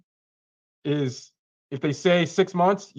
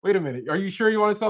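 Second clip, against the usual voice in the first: mock astonished; 5 semitones higher, 4 dB louder than usual. Acting the seller's astonished reaction.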